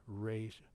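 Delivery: resh said with a long E as in they; resh with the vowel of they; sounding out. Shown as a demonstration. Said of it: "that long E sound is in they".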